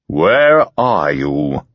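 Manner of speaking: slow, hard, insistent; stern demand. Acted. Hypnotist pressing Ginger, stern and slow. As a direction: press her for the answer. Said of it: "He became very stern".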